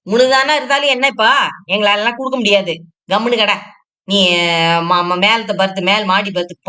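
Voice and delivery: slap the request down, irritated; angry retort. Acted. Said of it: "ஏன்க்கா இவ்வளவு ஆத்திரப்படுறீங்க".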